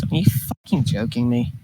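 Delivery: hushed unvoiced whisper of disbelief. Eric staring at her, whispered disbelief. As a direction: breathe it out, stunned. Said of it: "and just goes".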